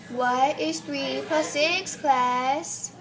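slow pretend teacher quizzing pupils; British teacher. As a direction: put the question slowly to the class. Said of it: "act like a teacher".

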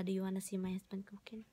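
ordinary delivery

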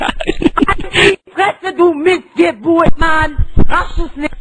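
screaming in total fury; shrieking, out of control; berserk rage. Real, not acted. Raging teen in voice chat fight.

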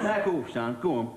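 lightly voiced cocky prison old lag; a touch of Fletcher's catchphrase delivery. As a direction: toss it off like Fletcher in his cell. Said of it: "That's Fletcher's expression".

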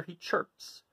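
breathed, almost silent; a tiny whispered chirp; soft breathy chirp. A narrator's reading. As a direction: let the word barely escape. Narration mimics a chirp.

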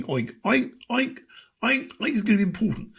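high squealing oinks into the words; pig voice. Retold or imitated. Politician as a pig oinking, high and squealy. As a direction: oink like a pig making a speech. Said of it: "sounds like a pig saying".

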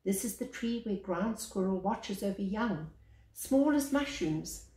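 measured picture-book reading, lingering on each line; story narration. Acted. Reading the baobab picture book aloud to children, storyteller voice. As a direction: read it like a gentle bedtime tale.

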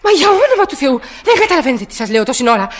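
irritated cry of disbelief; exasperated outburst. Acted. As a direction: throw up her hands in the voice. Exasperated woman with slow supervisor.

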